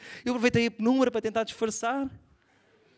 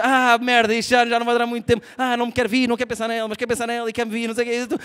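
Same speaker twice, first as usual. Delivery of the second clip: panicked inner monologue; 6 dB louder, faster than usual. Retold or imitated. Inner panic during sex.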